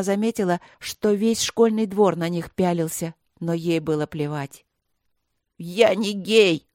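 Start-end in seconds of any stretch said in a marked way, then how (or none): 5.6-6.7 louder, slow, drawn-out yell; sudden yell. A narrator's reading. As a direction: burst out shouting at last. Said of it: "неожиданно заорал и Тихон".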